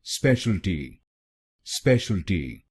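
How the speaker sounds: स्पेशलिटी said at normal pace as spesh-al-ti; correct pronunciation. Shown as a demonstration. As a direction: model स्पेशलिटी cleanly in three syllables. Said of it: "तो बनेगा". (सही उच्चारण, स्पेशलिटी सामान्य गति से)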